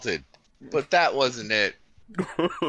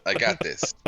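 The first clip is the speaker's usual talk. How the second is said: mock eager friend; 5 semitones higher than usual. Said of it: "you volunteered really enthusiastically".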